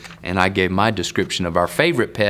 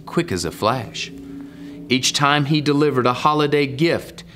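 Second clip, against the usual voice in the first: lilting picture-book read, rising and falling; story narration. Acted. Man reads Pete the Cat to young viewers, storytelling lilt. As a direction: read the rhyme out with a swing.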